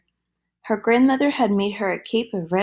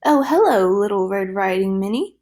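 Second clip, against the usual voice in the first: squeaky; 3 dB louder than usual. Acted. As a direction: squeak it out in a fake granny voice. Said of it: "he squeaked".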